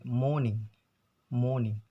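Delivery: "morning" with the r dropped, like "mawning"; "morning" the British way, long vowel, silent r. Shown as a demonstration. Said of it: "in British".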